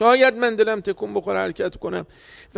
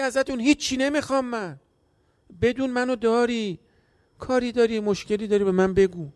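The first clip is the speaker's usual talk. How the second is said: gentle reassurance; 3 semitones higher, 4 dB quieter than usual. Acted. Voicing the Imam gently.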